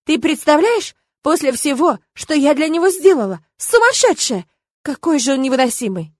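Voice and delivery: high, loud indignant rant; outraged complaint. A narrator's reading. Irma complains to her friend, high indignant rant. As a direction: pour out the outrage.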